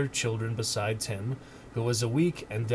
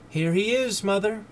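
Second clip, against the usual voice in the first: put-on high, bright child's cry; eager girl crying out; 9 semitones higher, 5 dB louder than usual. A narrator's reading. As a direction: cry out like an excited little girl. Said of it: "cried Belinda".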